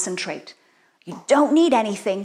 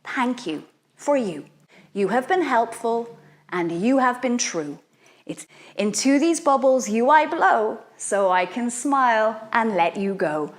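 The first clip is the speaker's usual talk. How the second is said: softly recited spell. Shown as a demonstration. Teacher reciting the bubble spell softly to children. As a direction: recite it gently, letting worries go.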